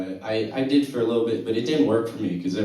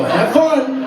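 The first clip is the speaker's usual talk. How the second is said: high, loud burst; loud, high-pitched send-off; mock cheering on; 14 semitones higher, 8 dB louder than usual. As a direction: holler it back down the phone. Acted reply to stoned dad's call.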